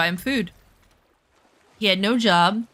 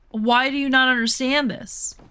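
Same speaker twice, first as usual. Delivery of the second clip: exasperated retold plea, pitch raised; desperate yelling; 4 semitones higher than usual. Woman trying desperately to reach her boyfriend, exasperated. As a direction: plead in frustration, slightly high. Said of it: "now I'm yelling".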